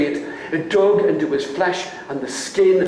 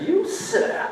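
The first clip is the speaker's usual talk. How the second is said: stern father challenge; 11 semitones higher, 5 dB quieter than usual. Acted. Angry father confronts dancer.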